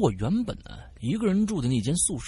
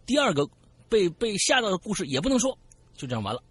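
ordinary talk, nothing marked

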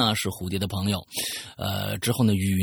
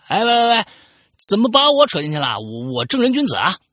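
higher, louder cry of innocence; indignant protest; 12 semitones higher, 7 dB louder than usual. Acted. Friend blamed for the virus loudly protests his innocence. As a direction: protest hard that you're being dragged into it.

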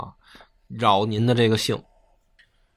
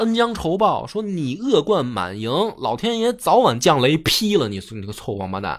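retold furious rebuke; 6 semitones higher than usual. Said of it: "指着安禄山就大骂".

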